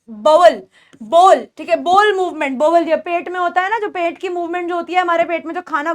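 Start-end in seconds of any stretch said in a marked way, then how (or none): 0.1-0.6 बाउल in two parts, "ba-wul"; bowel pronunciation. Shown as a demonstration. Teacher showing a similar word, "ow" glide in बाउल. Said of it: "जैसे एक word होता है ये".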